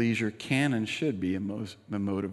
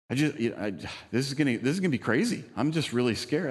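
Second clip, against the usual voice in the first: lightly imitated scared girl, rising and quicker; 3 semitones higher, 3 dB louder, faster than usual. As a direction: mimic her anxious rush, ending up high. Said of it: "she was terrified".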